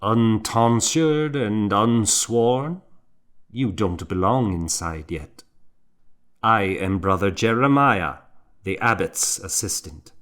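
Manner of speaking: a hint of a stern elder monk. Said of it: "Jeremiah looked at me sternly".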